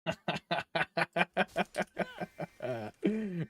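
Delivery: a drawn-out gloating laugh; mock villain laugh at the noobs. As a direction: laugh at them like a cartoon villain. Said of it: "And I will laugh at them".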